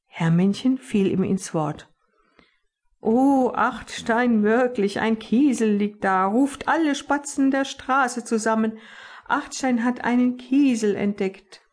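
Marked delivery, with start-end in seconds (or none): 3.0-11.6 mock excitement. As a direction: fake a big eager announcement. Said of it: "tat ganz aufgeregt".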